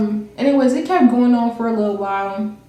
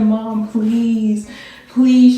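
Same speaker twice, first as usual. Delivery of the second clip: begging; 5 dB louder, much slower than usual. Retold or imitated. Retold begging mom not to beat.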